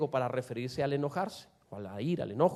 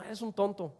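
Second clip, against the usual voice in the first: light, soft jokey jab; mild playful ribbing; playful teasing; 2 semitones higher, 6 dB quieter than usual. Shown as a demonstration. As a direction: toss it off as a harmless tease. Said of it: "está jugando y a lo mejor no lo quiere insultar".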